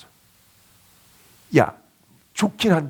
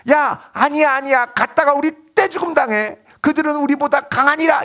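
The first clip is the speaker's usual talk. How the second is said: fearful protest; 10 semitones higher, 4 dB louder than usual. Retold or imitated. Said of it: "뭐라 그러냐?".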